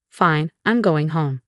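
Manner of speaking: slow, resigned exit line; a touch of weary defeat. Acted. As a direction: say it slowly, giving up. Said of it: "feeling defeated".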